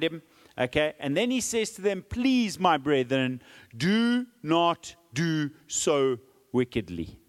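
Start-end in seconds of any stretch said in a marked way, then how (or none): 2.1-7.2 slow, earnest plea to the mob; pleading. Acted. Lot begging the raging mob, slow and earnest. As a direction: beg them gently not to do evil. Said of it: "He's pleading with them".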